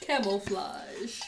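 slow, drawn-out Camouflage like a camel; grumbling camel voice. Pretend. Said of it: "Oh, you found your camel noise".

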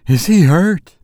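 high, urgent mother's question; wild demand. A narrator's reading. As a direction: demand it in rising alarm. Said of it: "demanded the mother wildly".

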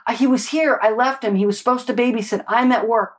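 mock out-of-breath excuse; imitated breathlessness. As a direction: lightly imitate someone explaining while winded. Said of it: "she's kind of out of breath".

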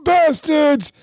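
put-on high, slow, strained old man voice; a mock grumble from a struggling old man; imitating old man cursing. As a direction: mimic a frail old man straining at the rod. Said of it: "under his breath, you can hear him going".

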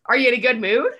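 loud, suspicious check; wary question. Retold or imitated. Empath asking a friend before hanging out, wary. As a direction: probe before agreeing to hang out. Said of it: "I'm like".

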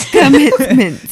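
"commitment" slow and loud, T's exaggerated; mock an overly careful "commitment", laughing; over-pronounced T's. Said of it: "anyone really says it like that".

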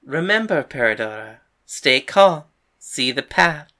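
low, mock-solemn teasing. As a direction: taunt a rival with mentor's advice. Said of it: "Angelica teased".

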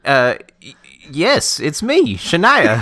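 put-on high Southern accent country-singer voice. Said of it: "Okay, Southern, it sounds like".

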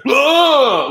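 loud, high drawn-out whoa; group's shocked reaction. Retold or imitated. Spectator mimicking his group seeing the replay, shocked. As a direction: imitate a crowd reeling in shock. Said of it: "our whole group was just like".

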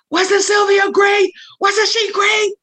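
high, loud, slow showcase shout; proud onstage shout. Retold or imitated. A singer calling out to the stadium crowd, a big proud shout. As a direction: hype her up to thirteen thousand fans.

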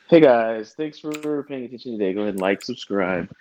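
upbeat standard YouTuber greeting; YouTube voice. Pretend. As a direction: greet fans like a vlogger. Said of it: "standard issue YouTube voice right there".

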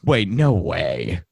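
surprised, rising excitement; suddenly thrilled, voice jumping high; dawning joy. Real, not acted. A photo of her exists.

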